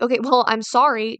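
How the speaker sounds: a touch of mock sarcasm on the sorry; snarky apology. Apologizing to a friend but snarky, a mild mock sarcastic sorry. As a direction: toss off a grudging, snarky sorry. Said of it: "don't say it in a snarky way".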